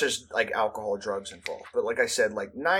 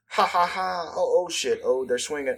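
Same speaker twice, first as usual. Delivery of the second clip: mock onlooker excitement; 6 semitones higher than usual. Acts onlookers watching a fight start.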